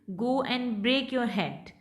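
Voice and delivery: slow, haughty, rising then falling; petulant rise-fall. Shown as a demonstration. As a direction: dismiss them haughtily, tune up then down. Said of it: "petulant, supercilious". (तुनकमिज़ाज rise-fall tone)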